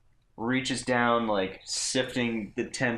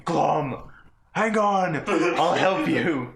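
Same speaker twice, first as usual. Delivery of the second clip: higher, louder call to a friend; yelling; 7 semitones higher, 4 dB louder, much slower than usual. Acted. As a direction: shout across the camp to help. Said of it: "he's yelling".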